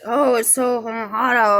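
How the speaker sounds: slow, lightly voiced older lady; a hint of the lady in the store; mild lady voice. Talking about the stranger's complaint, a lightly voiced lady's sigh.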